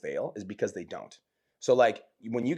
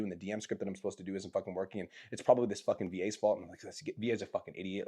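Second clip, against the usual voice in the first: mock frustrated student; 3 semitones lower, 6 dB quieter than usual. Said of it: "they're like".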